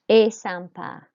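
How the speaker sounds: EST SYMPA slowly, "ay sam-PA"; silent ST. Shown as a demonstration. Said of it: "E S T is pronounced E".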